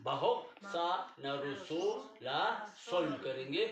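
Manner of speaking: teacher spelling it out; syllable by syllable. Shown as a demonstration. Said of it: "ऐसा नहीं करेंगे".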